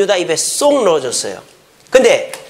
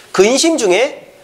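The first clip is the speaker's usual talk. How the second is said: 근심 중에 said slow and high, each syllable weighted; emphasized slowly; 6 semitones higher, slower than usual. Shown as a demonstration. Pastor stressing the first hint to the congregation, slow and emphatic. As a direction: lean on 근심 중에 slowly. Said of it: "첫 번째 힌트는 근심하신 거고".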